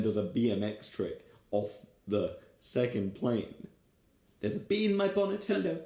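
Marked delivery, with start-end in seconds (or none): 4.4-5.8 sung high and thin, lampooning the twee singer; mock folk singer. Co-host spoofing the song's singer, high mock croon. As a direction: croon it like a cutesy folk act. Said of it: "imitating the song's singer".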